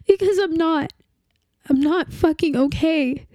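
a raw, bitter snap; bitter outburst. Acted. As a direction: throw the words back at them. Grieving partner confronts the dead.

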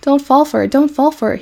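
high, insistent repeated plea; urgent warning. A narrator's reading. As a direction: warn a friend off a trick. Goose warns pig off pail trick.

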